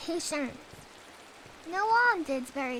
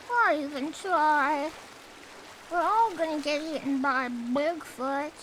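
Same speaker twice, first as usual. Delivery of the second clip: mock despair; 4 dB louder than usual. Mock gloomy doomer lament.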